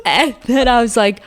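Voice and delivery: high-pitched giggling through the words; can't get it out for laughing. Real, not acted. Telling a friend the embarrassing story, laughing hard.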